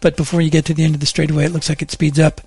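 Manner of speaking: steady, even on-air traffic and weather read; radio traffic report. Acted. Bill reporting morning traffic to listeners, a steady broadcast read. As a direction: read the roads to commuters like a news desk.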